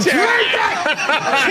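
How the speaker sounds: very high, strained yell; desperate command. Retold or imitated. Owner yelling at struggling dog to drink, high strained yell. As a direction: force it out at the thrashing dog.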